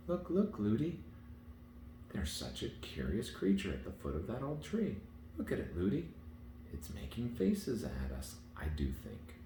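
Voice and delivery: put-on high, rising child's call; excited child. A narrator's reading. Princess calling her nurse's attention, high and excited. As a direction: point something out eagerly.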